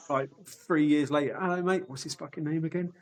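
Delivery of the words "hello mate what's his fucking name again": mock cheery greeting. Mock greeting then whispered aside.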